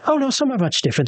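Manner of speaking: excited high voice. Acted. Rosalie eager about paintings.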